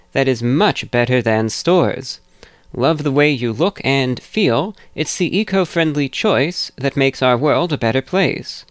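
upbeat sponsor ad read; hard sell ad. Acted. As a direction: sell it like a radio spot. Reads sponsor ad.

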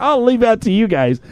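lightly voiced nurse, high; a hint of a prim nurse; high mock nurse. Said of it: "the nurse is like".

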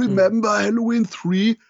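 lightly voiced cartoon berry; Member Berries. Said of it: "mit dem South Park Gag".

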